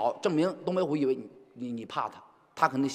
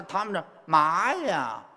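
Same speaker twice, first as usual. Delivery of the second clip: Beijing accent; slower than usual. Shown as a demonstration. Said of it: "你干两个字儿都不爱说".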